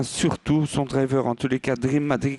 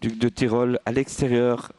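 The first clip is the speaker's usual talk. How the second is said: live horse race play-by-play; race caller. Real, not acted. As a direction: call the race as it unfolds.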